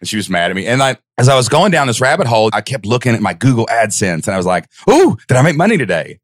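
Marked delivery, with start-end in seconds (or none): 4.9-6.2 higher, eager hopeful question; hope against hope each morning; mock hopeful. Man checking his earnings, higher eager hope.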